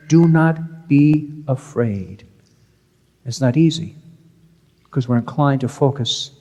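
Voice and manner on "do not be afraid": slow, calm and steady; solemn reassurance. Acted. Priest quoting Jesus to his frightened congregation, slow and reassuring. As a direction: lay each word down slowly, like a promise.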